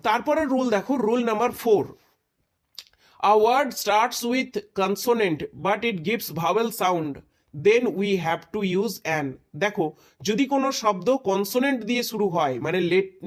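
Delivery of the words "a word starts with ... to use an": very slow, word by word dictation. Shown as a demonstration. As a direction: spell out the rule slowly for note-taking. Dictating rule slowly. (নোট লেখানোর জন্য খুব ধীরে ধীরে বলা)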